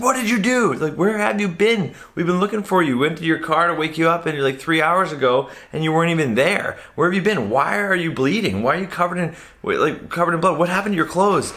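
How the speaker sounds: high-pitched, insistent friends; retold incredulous interrogation; acted alarmed questioning. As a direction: fire off worried questions, imitating the friends. Friends bombard him with questions.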